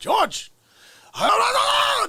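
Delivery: very high, drawn-out, swooping yell. Imitating the father yelling up to George: Jerry Stiller screaming up. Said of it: "scream up".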